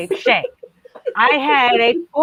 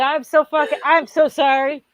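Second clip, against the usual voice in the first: louder, higher panicked blurt; flustered apology; 5 semitones higher, 4 dB louder than usual. Retold or imitated. Woman caught cursing before the priest, flustered apology. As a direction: blurt a mortified apology, tripping into a swear. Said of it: "Not me, though. I'm not normal".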